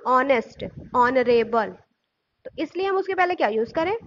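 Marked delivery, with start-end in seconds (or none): 0.1-1.7 "ऑनेस्ट, ऑनरेबल" each begun on O, no H; teacher showing the O that opens "ऑनेस्ट, ऑनरेबल"; initial O sound. Shown as a demonstration. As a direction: say "ऑनेस्ट, ऑनरेबल" with the first vowel clear. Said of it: "ओ का pronunciation हो रहा है".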